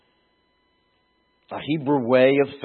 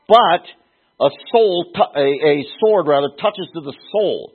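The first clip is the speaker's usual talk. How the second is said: higher and louder, building protest; anguished Jeremiah; 4 semitones higher, 4 dB louder than usual. Retold or imitated. Prophet protests to God, voice raised and building. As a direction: plead with God, rising indignation.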